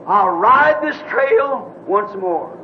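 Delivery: slow, solemn pronouncement, drawn out; earth-shaking voice. Retold or imitated. Dreamer retells the voice that shook the earth, slow and commanding. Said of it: "a voice shook the whole earth".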